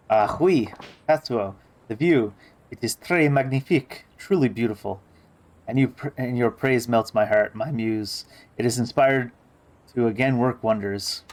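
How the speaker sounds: lightly voiced pompous diva sprinkling French words; Daddy's grand manner. Diva Daddy praising the view to her muse, lightly pompous. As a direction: play the haughty artist admiring the view.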